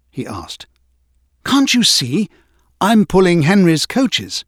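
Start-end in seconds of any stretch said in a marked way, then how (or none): 1.4-4.4 higher, perky engine voice; a hint of a cheeky little engine; peeping. A narrator's reading. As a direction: pipe it up like a small proud engine. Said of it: "peeped Thomas".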